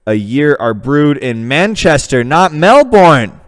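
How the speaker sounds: an American's put-on Australian accent; lightly done Australian voice. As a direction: ham up an Aussie bloke. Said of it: "great Australian character".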